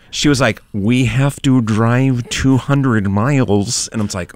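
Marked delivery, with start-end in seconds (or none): 0.7-3.9 slow, overdone American accent imitation; bad American accent. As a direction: imitate a British actress faking American. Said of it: "she cannot do an American accent".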